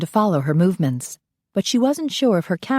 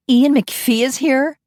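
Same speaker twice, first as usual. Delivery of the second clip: thrilled squeal; 9 semitones higher, 4 dB louder, slower than usual. Acted. Fan hears celebrity is present.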